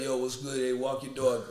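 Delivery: lightly imitated casual street voice; offhand, slightly low mock street greeting; normal street talk. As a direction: drop into easy everyday street talk. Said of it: "she, like, talked normal".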